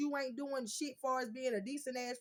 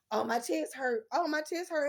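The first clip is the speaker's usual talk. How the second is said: mock whining; 4 semitones higher, 5 dB louder than usual. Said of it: "talking about some his chest".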